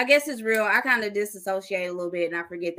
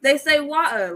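British water; 6 semitones higher, 6 dB louder than usual. Shown as a demonstration. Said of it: "they don't say the T".

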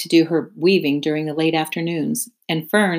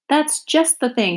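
much higher, slow, pleased pig voice; delighted pig; 9 semitones higher than usual. Acted. Wilbur approving the string from Templeton, high and pleased. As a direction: savour it with delight.

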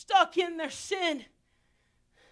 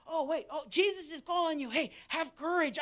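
mock sudden sweetness; 5 dB quieter than usual. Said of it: "they changed their voice".

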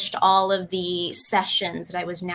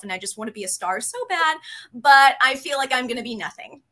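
imitating her younger self, higher and fast, breezy over dark words; mock cheerful confession; 3 semitones higher, 3 dB louder, faster than usual. Retelling what she told the counselor, a fast, higher mock-cheerful rush. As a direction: rattle it off fast and bright, pitched up. Own answer to counselor retold.

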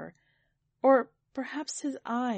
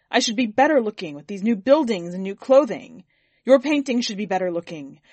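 much louder, indignant orders; angry command; 8 dB louder than usual. A narrator's reading. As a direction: command him, offended and furious. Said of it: "Sir commanded the painter".

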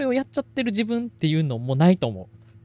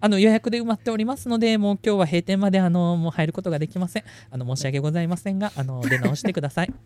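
customer service voice. Acted. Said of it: "彼女がやって".

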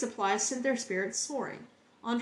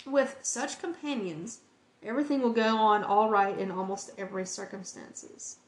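slow heartfelt reread. Real, not acted. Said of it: "I'm gonna read that again".

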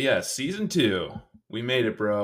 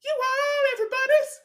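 higher silly voice; 6 dB louder than usual. Acted. Echoing the same line higher.

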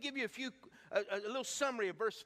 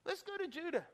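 calling to disciples; 7 semitones higher than usual. Acted. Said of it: "he says to his disciples".

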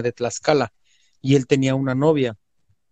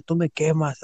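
mock agitated protest, pitched up; hermano alocado imitado; 4 semitones higher, slower than usual. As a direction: imitate a possessed man refusing a grip. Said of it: "se empezó a alocar otra vez". (protesta agitada imitada, en tono agudo)

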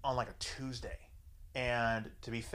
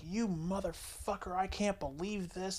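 mock pissed-off; 6 semitones higher, 3 dB quieter than usual. Retelling her reaction to being turned down, mock seething. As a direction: imitate seething disbelief without shouting. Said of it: "she's pissed".

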